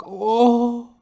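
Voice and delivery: put-on high, slow whiny old man; whining barber, breaking into a whimper at the end; complaining barber. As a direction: moan it like a tired hypochondriac. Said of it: "He'd be like".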